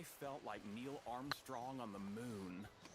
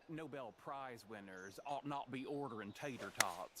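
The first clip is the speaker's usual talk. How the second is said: put-on lofty mid-Atlantic accent; 4 dB louder than usual. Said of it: "led me to adopt a mid-Atlantic accent".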